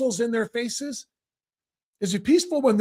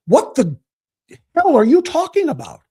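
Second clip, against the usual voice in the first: angry outburst; 3 semitones higher, 7 dB louder than usual. Real, not acted. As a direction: demand it, exasperated and loud. Angry host berating guest.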